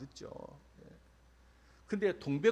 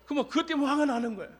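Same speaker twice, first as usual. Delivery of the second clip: high, loud and fast through laughter; a pastor laughing at his own belly story; 14 semitones higher, 11 dB louder, faster than usual. Real, not acted. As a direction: burst out laughing while telling it.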